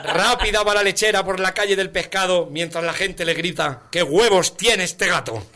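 slowing toward the punchline; rhythmic ballad ending; singsong verse finale. Acted. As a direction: recite it, drawing out the last line. Recites parody of Don Gato.

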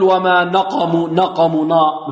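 نقموا with a thick, emphatic first nun; over-heavy nun. Shown as a demonstration. Teacher showing students what not to say, over-heavy nun. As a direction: wrongly darken the نا in نقموا. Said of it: "نفخم النون".

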